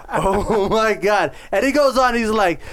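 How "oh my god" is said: laughing disbelief. Real, not acted.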